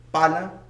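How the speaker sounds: "Pala" in two even beats. Shown as a demonstration. Teacher showing students two beats, "Pala" in two beats. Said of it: "Con dos golpes de sonido".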